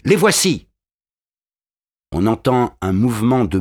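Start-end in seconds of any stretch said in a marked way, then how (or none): 0.0-0.7 put-on high, urgent child's shout; a boy bursting in, crying the alarm; cri d'enfant. A narrator's reading. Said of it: "bondit dans la barricade et crie". (un enfant crie l'alerte)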